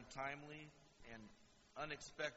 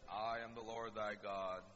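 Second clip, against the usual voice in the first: booming God voice; 4 semitones lower than usual. Retold or imitated. God on Mount Sinai addressing the whole nation, solemn deep proclamation. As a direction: intone it as the voice of God. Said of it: "we always say it like that".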